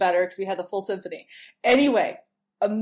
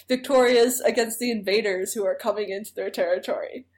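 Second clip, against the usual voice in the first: ordinary delivery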